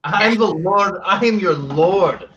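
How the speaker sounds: slow, haughty declaration; pompous lord. Acted. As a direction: insist on rank, grandly. Player insists in lord role.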